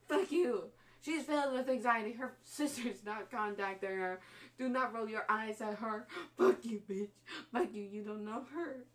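loud, heated, rising to near tears; angry rant. Real, not acted. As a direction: tell him off for her, furious. Ranting at character on screen.

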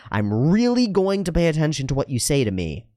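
emphatic sincerity, stretched on "really"; heartfelt, lifted-pitch assurance; earnest. Shown as a demonstration. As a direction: pledge attention directly and wholeheartedly. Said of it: "look somebody in the eye".

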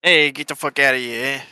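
lightly put-on Italian accent; mock Italian accent. Joining the Italian accent podcast idea, playful Italian accent. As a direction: try it in a casual Italian accent. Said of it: "in an Italian accent".

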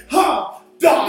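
mocking gamer taunt. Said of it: "you be watching niggas game and it's like".

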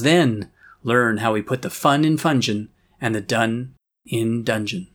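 town crier. Acted. Town crier announcement continues.

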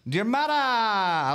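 Diarmada high and drawn out with a Hispanic lilt; Hispanic-sounding flourish. Shown as a demonstration. Host trying out a viewer's name, Hispanic-sounding flourish. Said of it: "you make it sound Hispanic instead of Irish".

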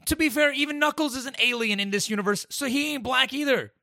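high-pitched, incredulous debate; high, exasperated challenge; heated arguing. Real, not acted. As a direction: keep pressing the point in a high voice. Heated argument over a character's race.

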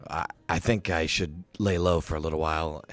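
a hint of a tired fighter laying low; Yagra. Yagra again.

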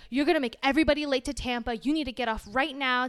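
fast, loud imitation of an impatient attendant; hurried, brusque quote; rude. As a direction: retell a pushy order. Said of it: "like, really rude to me".

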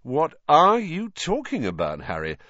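high, loud disbelief, dropping on the name; astonished. A narrator's reading. Teacher questioning pupil's strange claim, astonished. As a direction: ask in sheer astonishment. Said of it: "in high astonishment".

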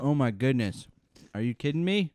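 amazed and thrilled; can't believe how good it is; excited. Real, not acted. First bite reaction.

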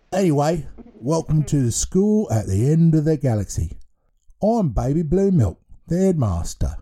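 put-on a cheerful baby in charge of a school; baby headmaster voice.

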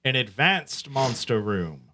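slow theatrical villain menace. Pretend. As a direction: savour it like a gloating villain. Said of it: "This villain voice that you keep putting on".

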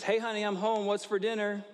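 high, loud call from the entryway; yell. Retold or imitated. Husband calling out to his wife from the entryway. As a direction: call out high and strong to the kitchen. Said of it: "just scream, uh, yell pretty loud".

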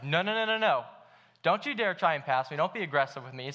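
rapid string of noes as an imitated touchy driver; defiant driver. Imitating a friend who won't be passed, mildly indignant. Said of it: "he's the type of guy who's like".

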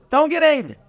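high, amused repeat; mock disbelief, laughing. Shown as a demonstration. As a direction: laugh through the words.

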